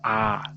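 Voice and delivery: आ drawn out as a long vowel. Shown as a demonstration. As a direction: hold आ for longer, as in a pronunciation demo. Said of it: "ज़्यादा समय लग रहा है".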